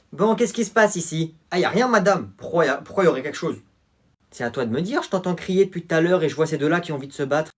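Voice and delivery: madame sévère, un peu plus aiguë; voix de prof. Acted. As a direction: fait la leçon aux élèves. Surveillante interroge les élèves. (surveillante sévère devant le collège)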